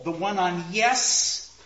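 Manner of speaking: "yes" drawn out and stressed; accent on YES. Shown as a demonstration. Lecturer points out where the accent falls, stressing "yes". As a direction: lean slowly on "yes". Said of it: "we get the accent on all".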